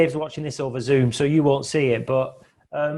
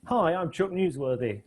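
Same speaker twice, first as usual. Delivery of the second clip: news reporter voice; 5 dB quieter than usual. Retold or imitated. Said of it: "based on that".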